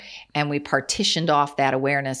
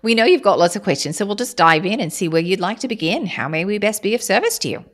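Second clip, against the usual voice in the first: opening with a breathy whisper, then a steady, formal channeled voice; channeled collective voice. Acted. Channeling star beings to the podcast host, a formal, unhurried collective voice. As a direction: speak as a collective of beings greeting listeners with measured honor.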